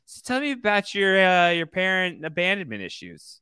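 a high, probing therapist put-on; mock psychoanalyst. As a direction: play at psychoanalyzing someone. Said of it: "psychoanalyzing him a little bit".

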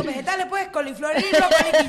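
slow, impatient imitation of the waitress; mocking the waitress who answered as if the question were silly, lightly voiced; mock curt waitress.

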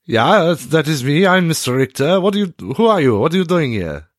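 a hint of a fussy old German office owner; elderly German gentleman. Game master plays the old German restaurant owner questioning the intruding player. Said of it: "Mister Richter is an elderly German gentleman".

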